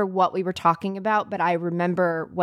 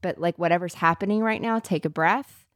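calmly and lovingly. Retold or imitated. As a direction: reassure her gently, take your time. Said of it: "very calmly and lovingly".

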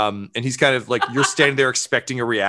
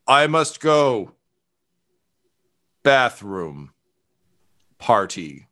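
panicked retreat; much slower than usual. Acted. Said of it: "with kind of trembling hands".

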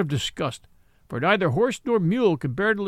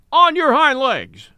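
high, loud, slow squeal; squealed challenge; 9 semitones higher, 8 dB louder, slower than usual. A narrator's reading. Mule squealing at the horse. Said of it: "squealed Billy".

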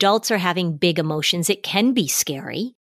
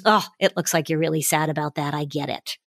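put-on softer and lower, empathic to a sad child; gentle acknowledgment; 3 semitones lower, 4 dB quieter than usual. Shown as a demonstration. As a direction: ease into it softly, validating. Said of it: "Or just acknowledging".

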